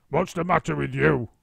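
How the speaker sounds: husband feigning surprise; Mister Twit. A narrator's reading. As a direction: pretend innocence loudly. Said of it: "Mister Twit said".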